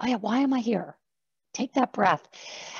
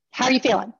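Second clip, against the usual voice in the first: rushed presenter; 3 semitones higher, faster than usual. Shown as a demonstration. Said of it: "obviously I'm exaggerating".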